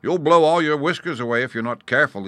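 high, loud teasing; amused taunt. Acted. Gnat mocking the puffing lion, amused taunt. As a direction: tease the big blowhard, raising your voice. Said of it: "he said with a laugh".

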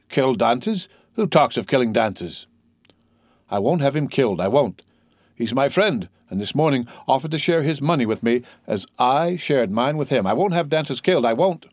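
lightly voiced tipsy drinker protesting for his friend; drunken Caderousse. Drunkard defending his absent friend to his companions, mildly indignant.

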